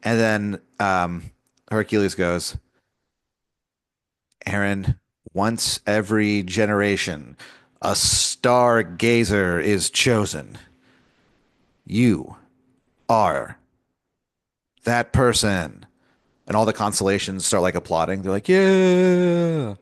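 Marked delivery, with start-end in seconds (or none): 4.5-15.8 slow grave announcement; solemn pronouncement. Pretend. Hercules telling Aaron he is chosen, slow and solemn. 18.5-19.7 long high cheer; cheering crowd. Pretend. Constellations applauding the new stargazer, high cheer.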